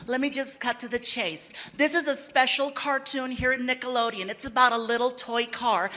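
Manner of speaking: hushed, slow, drawn-out pitch voice; director pitching. Retold or imitated. Director pitching the cartoon to Gabriel, slow and hushed. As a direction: sell the toy car idea, slow and hushed. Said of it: "She's like".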